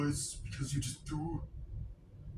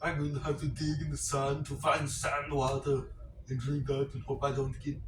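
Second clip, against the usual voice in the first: lightly put-on action-star voice; mock-dramatic complaint in a borrowed accent; Arnold. Vlogger joking about dying in the desert, Arnold impression. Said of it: "My Arnold voice".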